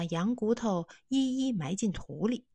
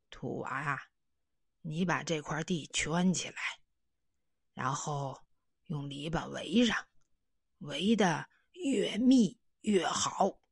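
lightly voiced old man. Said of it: "说".

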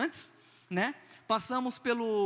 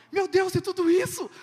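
shocked outburst; 9 semitones higher, 8 dB louder than usual. Retold or imitated. Wife sees the baggage fee.

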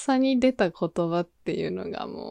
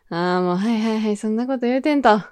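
quick, casual dismissive brush-off; breezy brush-off; faster than usual. Pretend. Brushing off a teasing coworker, quick casual dismissal. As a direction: wave it away like a cool older sister. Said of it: "こう受け流す系？".

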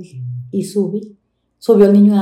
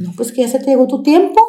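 higher, cold and curt; dismissive boss; 6 semitones higher than usual. Retold or imitated. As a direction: brush her off like an annoying maid. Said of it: "por eso le digo". (patrona despectiva y cortante)

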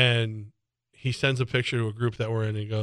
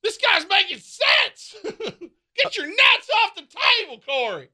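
Corey's dad; slower than usual. Pretend. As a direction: yell at Corey like a rowdy dad. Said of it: "Corey's dad chimes in".

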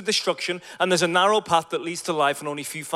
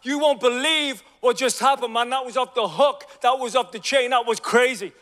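mock-excited young guys, higher; pumped; 5 semitones higher than usual. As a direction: hype it up like thrilled guys. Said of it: "these guys are, like, pumped".

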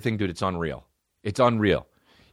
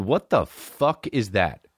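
ordinary talk

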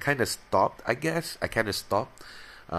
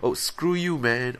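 mock mild curse; 6 semitones higher than usual. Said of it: "we cover it up".

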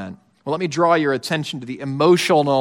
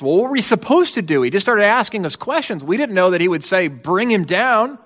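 quick, higher defensive protest; defensive brothers; 4 semitones higher than usual. Retold or imitated. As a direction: throw up your hands, what could we do. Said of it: "there's a defense".

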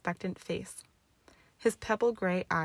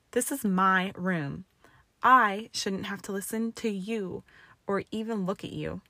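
angry; 4 dB louder than usual. Acted. Hermione furious at Draco.

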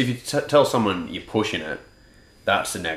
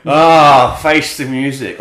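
higher, louder mock wonder; mocking imitation; 5 semitones higher, 10 dB louder, much slower than usual. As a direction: parrot his fake surprise. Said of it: "Like you haven't heard it before".

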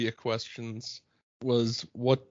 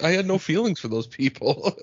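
casual. Retold or imitated. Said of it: "So casually".

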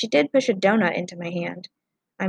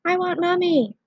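put-on child yelling between sobs; 10 semitones higher than usual. A narrator's reading. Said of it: "the boy yelled between sobs".

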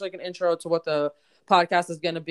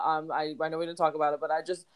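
smiling excitement; 3 semitones lower, faster than usual. Real, not acted. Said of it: "hear the smile in my voice".

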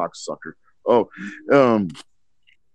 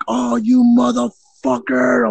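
mock furious curse; 12 semitones higher, slower than usual. Drunkenly fighting stuck closet door.

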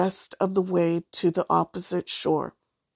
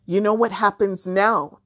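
mild shout; 4 dB louder than usual. Acted. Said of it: "the Jumbi shouted across the river".

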